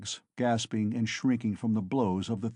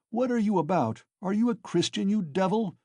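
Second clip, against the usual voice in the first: indignant shout; 9 semitones higher than usual. Acted. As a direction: rebuke him angrily. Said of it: "shouted an old man".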